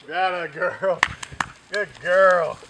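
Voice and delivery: high, loud praise for a pup; excited praise. Real, not acted. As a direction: cheer the puppy on. Praising puppy.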